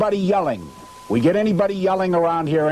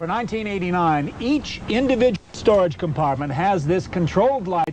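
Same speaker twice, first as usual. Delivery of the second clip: ad voice-over read; 3 semitones higher than usual. Acted. Pitchman presenting the 1989 model storage, smooth ad read. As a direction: pitch the compartment lights.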